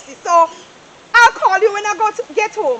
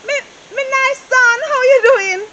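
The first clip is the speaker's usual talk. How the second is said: excited greeting; 4 semitones higher, 5 dB louder than usual. Acted. Mother greets son on phone.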